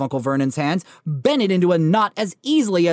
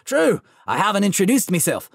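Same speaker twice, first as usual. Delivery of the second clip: chuckling Hagrid; 3 semitones higher than usual. Acted. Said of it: "The giant chuckled".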